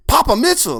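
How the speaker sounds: high, loud starstruck cry; fanboy freak-out. Retold or imitated. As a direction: squeal the name like a starstruck fan. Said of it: "like, just freaking out".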